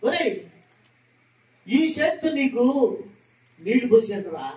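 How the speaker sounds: lamenting father shouting in grief; father's wailing lament. Retold or imitated. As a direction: wail over the dead son. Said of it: "అని చెప్పి ఆ శవం మీద పడి ఓ అని ఏడుస్తాడండి".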